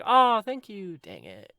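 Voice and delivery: high, loud gushing thanks; Tracy. Acted. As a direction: gush like a flattered girl. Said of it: "And she's like".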